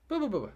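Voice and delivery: high, falling "boo-boo-boo" sound effect; quick repeated boo noises, pitched high; imitated scurrying noise. Storyteller mimics the loose dog taking off, imitated scurrying noise.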